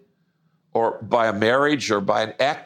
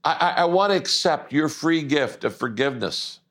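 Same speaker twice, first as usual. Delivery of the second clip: earnest model prayer, measured with long pauses; sample prayer. Shown as a demonstration. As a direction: lead the listener in a prayer phrase by phrase. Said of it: "say something like this".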